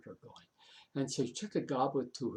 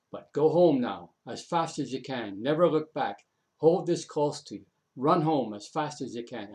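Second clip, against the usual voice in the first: urgent warning; 6 dB louder than usual. Acted. Urgent rescue, hurried warning.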